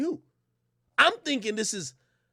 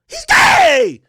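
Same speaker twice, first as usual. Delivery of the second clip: put-on very high, loud incredulous girly voice; mimicking girlfriend; 14 dB louder than usual. Narrator imitating his date shocked he is mad. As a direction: squeal in disbelief like her. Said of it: "her reply".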